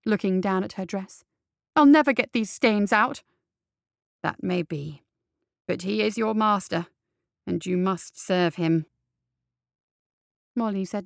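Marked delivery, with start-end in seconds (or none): 1.7-3.2 exasperated. Acted. Complaining about her dress. 4.2-8.9 a hint of a stern tutor; stern old head. Head insists on duty.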